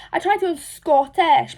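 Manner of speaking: attempted Scottish accent. Shown as a demonstration. Trying Scottish for viewers, an accent that is not working. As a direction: have a failed go at a Scottish accent. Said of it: "but it's just not working".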